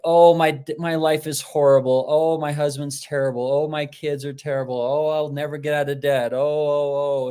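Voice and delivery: piling up complaints in mock despair; mock woe. Imitating people who want consoling for their horrible lives, mock woe. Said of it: "consoling the people that are like".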